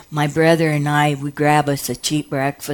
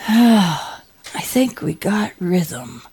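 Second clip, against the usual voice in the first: slow and calm; 2 semitones higher, much slower than usual. Retold or imitated. Doctor quoted, calm.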